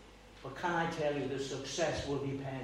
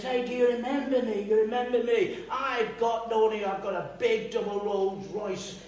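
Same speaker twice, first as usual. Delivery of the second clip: louder, higher smug gloat; gloating driver; 5 semitones higher, 4 dB louder than usual. Retold or imitated. Rolls driver gloating at the Texan's door, smug brag. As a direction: knock and crow over him. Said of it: "and he says".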